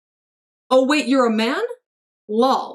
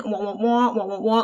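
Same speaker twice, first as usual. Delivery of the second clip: lower, wordless wah-wah mumbling; Charlie Brown adult; 4 semitones lower, 3 dB quieter than usual. Retold or imitated. Streamer mimics how adults talk, cartoon wah-wah. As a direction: talk in empty wah-wahs like a cartoon grown-up. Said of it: "like Charlie Brown".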